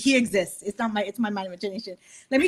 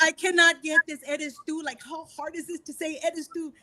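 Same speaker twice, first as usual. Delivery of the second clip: retold tearful frustration; 5 semitones higher than usual. Singer failing at take after take, mock-tearful. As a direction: mildly imitate a tearful, exasperated plea. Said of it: "I went in there and I cried".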